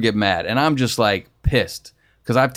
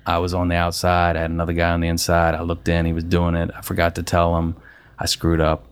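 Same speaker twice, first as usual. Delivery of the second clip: sheepish apology; 5 semitones lower than usual. Retold or imitated. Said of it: "hung his head and he goes".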